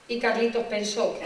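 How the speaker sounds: normal talking voice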